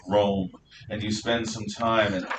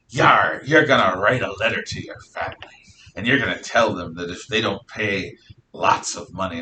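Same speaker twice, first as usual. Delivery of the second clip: lightly voiced pirate making demands; a hint of storybook pirate; 3 semitones lower than usual. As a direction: play-act a pirate issuing orders. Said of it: "I'm gonna use the pirate voice".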